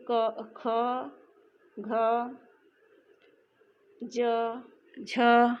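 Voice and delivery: ख, घ, झ said one by one with a strong breathy puff; aspirated letters demo. Shown as a demonstration. Teacher showing students the mahaprana letters, breathy and clearly articulated. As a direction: sound out क, ख, घ, ज, झ with a clear burst of air on ख, घ and झ. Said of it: "देखिए, इनके उच्चारण में मुख से हवा ज़्यादा निकल रही है".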